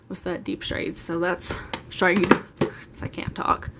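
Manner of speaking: breathless, running out of air; out of breath. Real, not acted. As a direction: speak short of breath. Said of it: "I'm getting out of breath".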